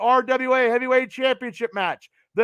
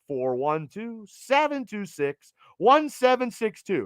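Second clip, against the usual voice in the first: radio voice. Pretend. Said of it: "It's my radio voice".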